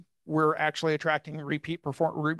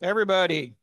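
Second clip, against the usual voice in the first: booming echoey hall greeting; cave echo; 3 semitones higher, 6 dB louder than usual. Real, not acted. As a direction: call it out into a big echoing room. Mic check greeting to room.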